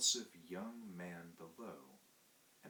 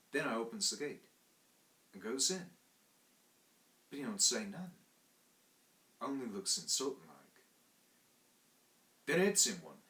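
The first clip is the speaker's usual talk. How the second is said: higher, louder Cockney manservant; Cockney servant telling a tale; 3 semitones higher, 5 dB louder than usual. Acted. Thomas telling the narrator about the night watchman, Cockney and indignant. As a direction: tell it like a proud London lad. Thomas tells his story.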